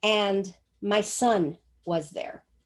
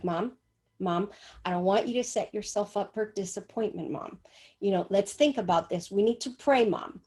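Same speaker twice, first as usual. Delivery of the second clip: concerned son; 2 semitones lower than usual. Retold or imitated. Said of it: "Then he got concerned".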